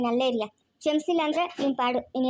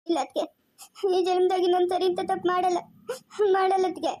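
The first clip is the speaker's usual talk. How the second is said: crying; 2 semitones higher than usual. Acted. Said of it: "ಅಳ್ಬೇಡ".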